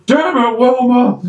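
high, angry bellow; sitcom husband yell. Retold or imitated. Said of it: "I'm sitting there half thinking".

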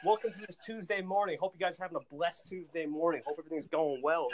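wide-awake morning show opener; fired-up host greeting. Acted. Host reenacts himself twenty minutes after waking, fired up. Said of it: "And then twenty minutes later".

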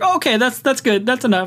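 high-pitched mock "whoa, enough"; imitated hasty cut-off. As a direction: pitch up, cut someone off mid-audition. Imitating alarmed casting reaction.

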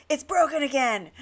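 high-pitched mock exasperation; acted irate outburst; retold anger. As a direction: imitate a fed-up customer complaining. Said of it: "he was so mad".

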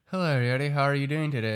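imitating someone talking through a fixed smile; smiling talker. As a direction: greet them without dropping the smile. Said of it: "talk like this? They smile".

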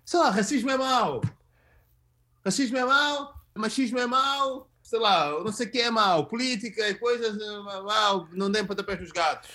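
voz levemente encenada de quem prega o óbvio, mais aguda no início; tipo moralista imitado. Retold or imitated. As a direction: imita um tipo a debitar banalidades virtuosas. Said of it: "um tipo que vem e diz assim". (imitação de um moralista do óbvio)

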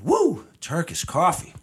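slow, loud caffeine-buzzed woo; drawn-out jittery cheer; wired woo. Real, not acted. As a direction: ride the coffee rush out loud. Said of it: "all that shit just hit me".

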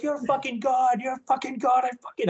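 high, gushing fan retelling; starstruck gushing. Retold or imitated. Fan gushing to his guitar idol, starstruck.

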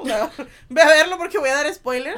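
loud laughing warning; laughing spoiler warning. Real, not acted.

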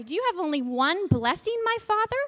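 rising plea, high on my; teacher voicing Esau for children; pleading question. Shown as a demonstration. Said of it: "Can you say that?".

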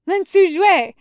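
loud alarmed cry, high. Acted. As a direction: shout his name in alarm. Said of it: "Jinling cries out".

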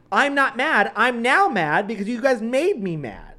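high, loud, indignant comeback; exasperated retort. Retold or imitated. Kid snapping back at teasing siblings, exasperated. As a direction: protest with the pitch jumping up.

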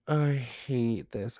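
slow, drawn-out I hate this; drawn out like a long complaint; dragged-out groan. Real, not acted. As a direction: stretch every word out in disgust. Spider scare, groaning.

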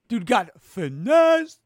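loud, high, drawn-out delivery; loud, slow crowing; crowing punchline. Real, not acted. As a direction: shout the last word, stretching it out slowly.

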